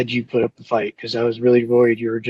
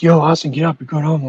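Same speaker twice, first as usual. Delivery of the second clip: higher-pitched, insistent wake-up call; imitated guard's call; 5 semitones higher, 4 dB louder than usual. Guards telling sleepy inmate he's going home, imitated call.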